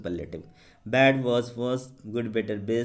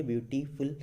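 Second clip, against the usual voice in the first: ब्यूटीफुल run together more quickly; 4 dB quieter than usual. Shown as a demonstration. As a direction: say ब्यूटीफुल in one quicker go, syllables still audible. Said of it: "ऐसे भी जल्दी बोलिए". (ब्यूटीफुल को जल्दी से एक साथ बोलें)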